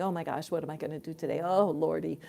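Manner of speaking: fast mock-frantic fretting; lightly hammed-up anxious fussing. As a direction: rattle it off like a fussing worrier. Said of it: "the divine being anxious".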